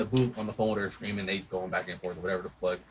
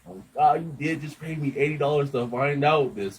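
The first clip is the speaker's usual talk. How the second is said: higher, drawn-out mock disbelief; exasperated reply; 4 semitones higher than usual. Engineer answering the upset client who paid him, slow exasperated retort. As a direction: stretch it out, pitched up in protest.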